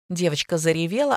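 plain reading voice

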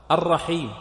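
الرحيم with a strongly doubled r; marked shadda. Shown as a demonstration. Teacher counting the shaddas, الرحيم with its r firmly doubled. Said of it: "براء الرحيم".

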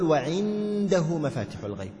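وعنده with the نون fully sounded and nasalised, slowly; wrong izhar with ghunna. Shown as a demonstration. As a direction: say وعنده with a clear, nasal نون, not hidden. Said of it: "أظهر بغنة".

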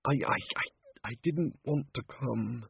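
stammering, breathy half-whisper; nervous wizard stammering; desperate stammer. Acted. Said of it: "The wizard looked desperately at Tea Time".

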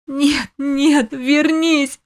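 a high, weeping cry to come back; sobbing plea. A narrator's reading. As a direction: beg through tears. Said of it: "разрыдалась с новой силой".

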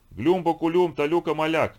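высокая громкая тарабарщина существа; произнеси, как желейное чудище; булькающий инопланетянин. Acted. Студень вдруг говорит. (булькающий голос инопланетянина)

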